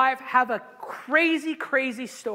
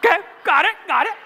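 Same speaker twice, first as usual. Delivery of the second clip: sheepish okay; 8 semitones higher, 7 dB louder, much faster than usual. Retold or imitated. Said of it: "I'm like".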